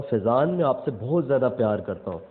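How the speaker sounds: sincere, loving declaration to a cousin; affectionate. Shown as a demonstration. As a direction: say it with fondness and closeness. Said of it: "उसके अंदर एक अपनाइयत". (अपनाइयत और प्यार से)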